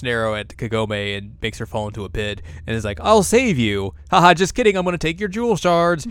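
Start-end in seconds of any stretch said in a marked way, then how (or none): 3.0-6.1 mock villain taunt. Acts villain taunting a girl.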